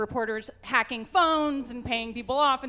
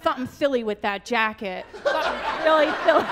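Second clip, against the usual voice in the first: Mike Tyson lisp; 4 dB louder than usual. Retold or imitated. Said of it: "he's lisping".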